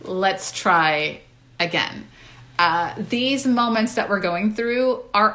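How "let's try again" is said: self-grace. Retold or imitated. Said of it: "gave myself a lot of grace".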